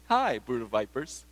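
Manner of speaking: a casual, friendly "Hi, brood of vipers" with a rising tune; cheery greeting. Shown as a demonstration. Preacher showing the insult said wrongly, as a cheery greeting. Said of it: "You can't say".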